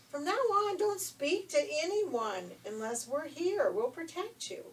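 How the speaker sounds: put-on stern, loud warning to a careless girl; firm dwarfs' warning. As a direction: protective dwarfs putting their foot down. Dwarfs scolding and warning Snow White.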